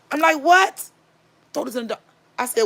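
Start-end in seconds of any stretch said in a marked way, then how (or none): 0.4-0.9 very high, rising yelp of disbelief; imitating her own baffled reaction; retold incredulous what. Wife reacts to being shushed. 1.5-2.0 soft, cut-off secretive order; hushed and interrupted mid-word; imitating a furtive husband; whispering. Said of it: "is you whispering".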